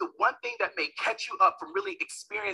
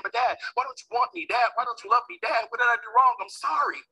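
put-on pleading child; 5 semitones higher than usual. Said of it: "I'm crying so hard".

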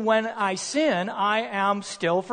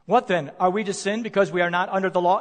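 rushed reading; faster than usual. Shown as a demonstration. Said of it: "You know what that verse seems to suggest?".

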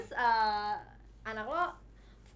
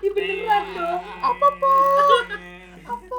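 put-on child voice; 10 semitones higher, 13 dB louder, slower than usual. Playing the child answering papa.

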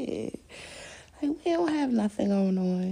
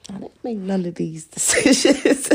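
laughing quote; 9 dB louder than usual. Retold or imitated. Laughing while quoting herself.

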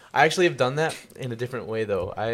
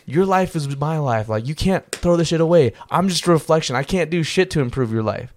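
higher, insistent retold lecture; mad at himself; 5 semitones higher than usual. Reflection lecturing him on his life, retold insistent scolding. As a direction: press each point as the scolding reflection. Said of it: "getting mad at myself".

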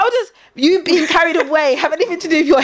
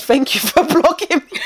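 quoting mum, laughing; 2 semitones higher than usual. Retold or imitated. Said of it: "And his mum said".

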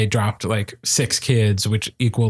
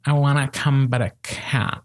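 put-on teenager voice. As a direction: plead then fade like a teen. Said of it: "Our teenager impression is getting so good".

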